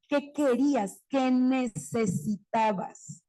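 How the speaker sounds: put-on slow, calm asking of the child; gentle question. Shown as a demonstration. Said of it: "Valido la emoción y entonces pregunto". (pregunta lenta y tranquila al alumno)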